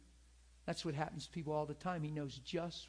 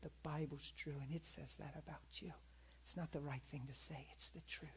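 much softer, close and tender; husband quietly comforting his wife, softer and softer; gentle reassurance; 9 dB quieter than usual. Retold or imitated. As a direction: hush it to her like a secret comfort.

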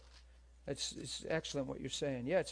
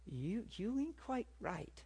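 slow, higher, mock-wary store manager; skeptical woman; 5 semitones higher, 6 dB quieter, slower than usual. Preacher voicing the manager's wary stare, slow and higher. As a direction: drawl out her doubtful look at him. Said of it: "giving me these eyes like".

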